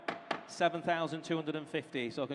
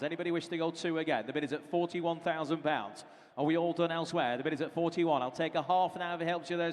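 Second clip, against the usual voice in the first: auctioneer. Acted. Auctioneer calling bids.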